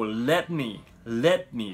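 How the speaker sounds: "let me" with the t left unreleased; smooth "le'me", stopping the t silently; dropped T. Shown as a demonstration. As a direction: run "let me" together, no audible t. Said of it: "ここはTが省略されてます".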